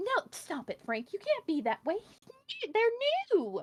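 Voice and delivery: very high, loud, swooping voice. Voicing a cat who steps in to stop another cat: voicing the cat Princess. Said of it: "You see Princess come up and she's just like".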